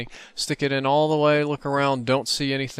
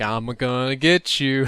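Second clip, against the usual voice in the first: taunting zombie; slower than usual. Retold or imitated. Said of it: "It starts laughing".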